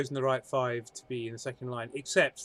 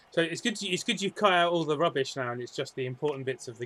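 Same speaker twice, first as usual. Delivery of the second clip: sarcastic. Acted. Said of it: "it was sarcasm".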